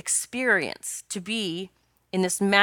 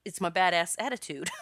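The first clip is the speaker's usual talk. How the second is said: laughing; 3 dB quieter than usual. Retold or imitated. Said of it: "she actually just said".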